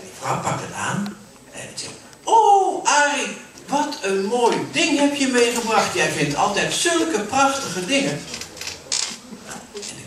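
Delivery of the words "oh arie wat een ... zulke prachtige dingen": much higher, louder, gushing wife's voice; delighted wife. Acted. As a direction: gush over the gift. Vrouw bewondert het cadeau. (verrukte vrouw, hoog en luid)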